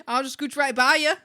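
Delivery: laughing, badly faked Canadian accent; mock Canadian accent. Shown as a demonstration. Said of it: "See, I can't even do it".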